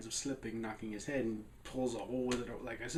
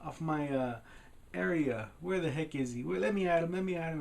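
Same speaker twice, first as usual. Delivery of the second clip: mock-indignant, raised pitch; freaking out; 6 semitones higher than usual. Book character knocked off his shelf, hammed-up outrage. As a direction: act out a riled little character spoiling for a fight. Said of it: "he freaks out and he's like".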